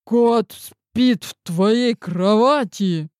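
резко, с возмущением; вскинулся от удивления; взвился. Acted. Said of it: "Взвился я". (возмущённо)

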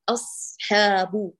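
أصحاب with the ح sound held long, not cut off; drawn-out fricative. Shown as a demonstration. Teacher demonstrating a sustained ح to her student. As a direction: stretch the ح in أصحاب smoothly. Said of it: "لا تقطعي صوتها".

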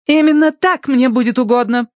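high, loud cutting retort; curt retort. A narrator's reading. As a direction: snap back at the butler. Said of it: "отрезала Тосси".

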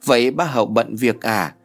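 put-on girl missing her father, a light cooing child voice; lightly voiced cuddly girl. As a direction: coax dad to come home. Hến begs dad on phone.

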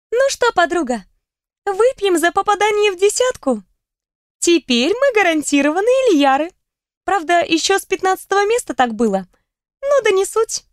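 бойкий девичий голос, тост; задорно поднять тост; весёлая подруга. Acted. (задорный голос подруги)

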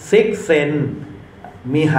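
ซิกเซน มิไฮ said as sik-sen, mee-hai; surname read out. Shown as a demonstration. Lecturer shows the class how the surname is read, ซิกเซน มิไฮ in separate parts. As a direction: sound out ซิกเซน, pause, then มิไฮ. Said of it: "นามสกุลอ่านว่า".

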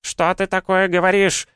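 put-on very high, shocked old-woman cry; потрясённое аханье. A narrator's reading. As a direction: gasp it out, scandalised. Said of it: "ахнули бабки хором". (ахнуть по-старушечьи, высоко и возмущённо)

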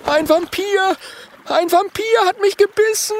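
high, loud panicked shriek of a spiny dragon; excited scream. Acted. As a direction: shriek the news in alarm. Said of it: "schreit ein aufgeregter Stacheldrache".

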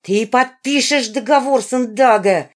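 put-on a girl screaming her ultimatum; shouting. A narrator's reading. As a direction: yell the demand while hitting her. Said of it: "закричала она".

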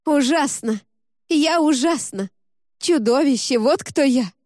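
high, loud anguished cries; anguished outburst. Acted. Zoya smashes her room, screaming at herself in anguish. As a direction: hurl the words at herself in despair.

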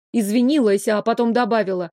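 ordinary delivery

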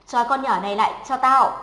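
loud command to the gang; ordering. A narrator's reading. Rival girl orders the boys to grab her, loud command. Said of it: "rồi ra lệnh".

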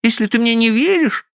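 put-on high girlish voice, firm fall; hurt ultimatum. Stephanie warns Frank she will leave, high voice. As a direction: put it to him as a threat.

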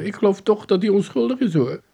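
high-pitched motherly protest; sympathetic mother. Acted. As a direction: defend him in a high voice. Mother defends the arrested man.

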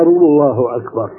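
الله أكبر ending in a clear u vowel; with damma. Shown as a demonstration. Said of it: "مضمومة". (الله أكبرُ مضمومة)

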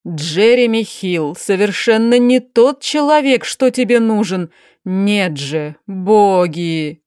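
a lightly voiced tired aristocratic aunt; weary duchess. Duchess to niece Sofi, lightly voiced weary despair. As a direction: speak as the exhausted duchess despairing over her niece.

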